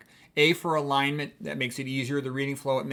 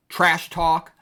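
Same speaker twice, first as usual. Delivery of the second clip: TRASH TALK, two equally punched, louder beats; both syllables stressed; 3 semitones higher, 6 dB louder than usual. Shown as a demonstration. Teacher quoting a fighter's term, Trash talk with double stress. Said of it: "They're both stressed syllables".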